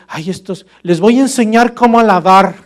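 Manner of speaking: mock-arrogant, rising to a loud, high boast; self-exalting show-off. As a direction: act the know-it-all worshipper, building to a shout. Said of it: "yo estaría exaltándome a mí mismo". (fanfarrón, alzando la voz con soberbia)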